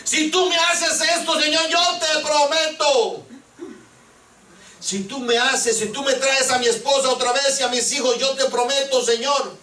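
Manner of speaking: mock pleading bargain with God; bargaining plea. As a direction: wheedle like you are striking a deal with God. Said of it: "Chantajear al Señor".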